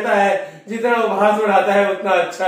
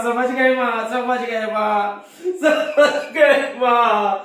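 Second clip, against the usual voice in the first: laughing realisation; 2 semitones higher, much slower than usual. Real, not acted. Devotee laughing to Mother as it clicks. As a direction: stretch it out and laugh as it sinks in.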